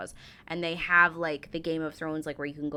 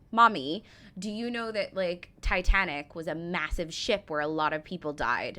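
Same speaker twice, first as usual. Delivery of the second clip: put-on British accent; 3 dB louder than usual. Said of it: "a British accent with that".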